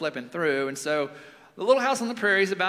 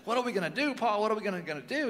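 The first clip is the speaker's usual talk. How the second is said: mock-frantic child's question, pitched up; retold near-panic; 5 semitones higher, much faster than usual. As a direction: imitate a distraught girl begging for answers. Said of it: "she's just about to lose it emotionally".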